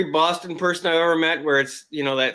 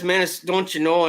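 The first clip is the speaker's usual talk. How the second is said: put-on Minnesota accent; slower than usual. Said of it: "every Minnesotan says".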